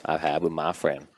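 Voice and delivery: calm, reflective, low voice; Morgan Freeman voice. Acted. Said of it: "Morgan Freeman".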